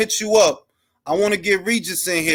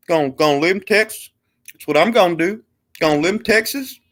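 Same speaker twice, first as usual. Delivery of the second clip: Texas drawl; faster than usual. Pretend. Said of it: "I'm gonna talk like this".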